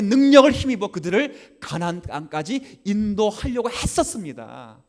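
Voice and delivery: high, loud sung-out preaching over music; fiery preaching. Acted. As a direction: preach it out, building fervor. Preaching crescendo.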